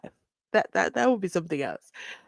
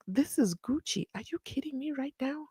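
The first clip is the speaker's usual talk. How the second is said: a lightly raised, haughty protest; indignant rich accused; 6 semitones higher than usual. Retold or imitated. Host imitating Mister Cat, mildly haughty. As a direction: play the offended big shot refusing leg irons. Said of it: "Mister Cat will be like".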